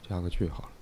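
dictating punctuation. Shown as a demonstration.

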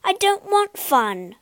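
a touch of a weary groan. Acted. Pinocchio turns the toys down, lightly groaning. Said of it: "groaned Pinocchio".

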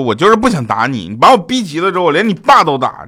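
mildly heated threat, acted out; retold anger. Threatening a friend during a quarrel, mock anger. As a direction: rise into a mock-angry warning. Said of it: "当时我就特别生气".

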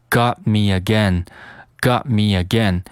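"got me again" with the t in "got" held back; "got me again" as gah-me again, no puff on the t; unreleased T. Shown as a demonstration. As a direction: stop "got" silently before "me". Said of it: "把这个T进行一个失去爆破".

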